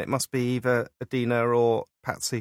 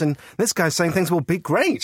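gullible voter; 5 semitones higher, 4 dB louder, slower than usual. Acted. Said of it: "Yet people go".

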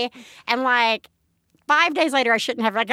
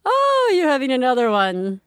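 put-on Eastern European accent. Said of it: "I'm gonna do a horrible accent".

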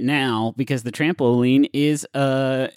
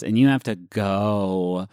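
vocal fry; 3 semitones lower, slower than usual. Pretend. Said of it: "that voice for me seems slightly seductive".

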